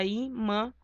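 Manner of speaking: imã slowly split into i and mã; syllable separation. Shown as a demonstration. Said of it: "Separação silábica".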